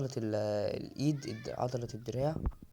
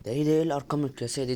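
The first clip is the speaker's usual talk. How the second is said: stunned disbelief; 3 semitones higher, 7 dB louder, faster than usual. Real, not acted. Shocked by huge weight numbers.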